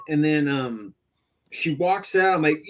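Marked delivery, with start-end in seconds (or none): none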